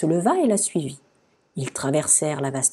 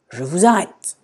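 stern, growled guard's order; garde qui gronde; 4 dB louder than usual. A narrator's reading. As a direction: growl it like a guard making an arrest. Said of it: "gronda le garde". (garde qui gronde)

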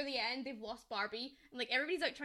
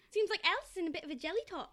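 quick, lightly imitated Cockney; mock Cockney; 4 semitones higher, faster than usual. Retelling Chelsea's line from the film, light mock Cockney. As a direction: rattle off a higher-pitched Cockney quote. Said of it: "Sutton's teaching me Cockney".

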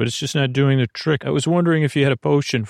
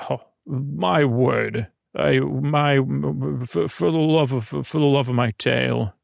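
indignant centaur. Acted.

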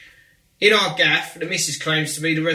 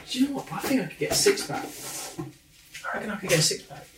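boastful quote; 6 semitones higher, 3 dB quieter than usual. Retold or imitated. Telling his wife about a six-pack, cocky boast. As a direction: brag to the wife, sure of himself.

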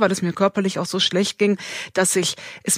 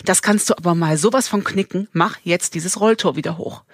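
lightly acted, emphatic no; defiant refusal; 3 semitones lower than usual. Balking at the mountain ahead, lightly acted defiant refusal. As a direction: dig in, mildly indignant. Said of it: "und sagst".

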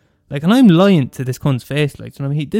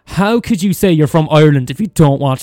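shaming a friend in a mock loud voice; mock outrage; 2 semitones higher, 6 dB louder than usual. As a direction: scold Sharon theatrically. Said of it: "I'll say".

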